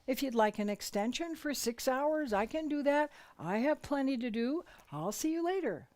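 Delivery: wife cheerfully agreeing to leave him alone; cheerful agreement. Retold or imitated. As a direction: breezily give him all the space. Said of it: "And I would say".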